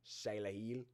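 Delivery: attempted Australian accent, rising at the end. Shown as a demonstration. Host trying a draft pick's name, mock Australian accent. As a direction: try the name like an Australian, badly. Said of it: "say it like I'm Australian".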